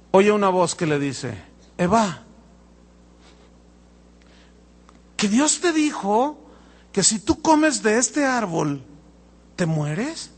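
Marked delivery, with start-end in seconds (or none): 1.8-10.3 smooth tempter voice. Retold or imitated. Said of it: "Te voy a decir cómo habla el dragón".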